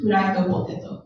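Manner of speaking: "fried potato" as furaido poteto, evenly; Japanese English accent. Shown as a demonstration. Teacher repeating the menu word, Japanese English accent. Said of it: "Like this".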